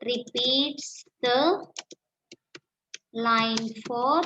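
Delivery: slow, word by word, for writing down; slow dictation. Shown as a demonstration. Teacher dictating the answer to students, slow and deliberate. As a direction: dictate it slowly so they can copy.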